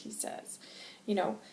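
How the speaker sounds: ordinary talk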